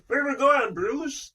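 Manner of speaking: high-pitched voice in a famous singer's style; putting on Madeleine Stowe sounding like a famous singer; impression of a singer. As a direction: lift it high and play the singer. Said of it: "she sounds a little bit like the singer".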